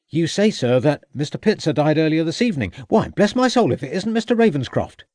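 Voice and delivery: lightly voiced country constable, surprised; a hearty policeman recognising a friend. A narrator's reading. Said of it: "said the constable".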